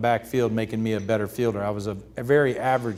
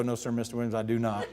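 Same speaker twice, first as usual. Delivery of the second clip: softer, deferential answer; meek rookie; 6 dB quieter than usual. Retold or imitated. Young pitcher answering Ted Williams, meek. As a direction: answer small and polite to your idol.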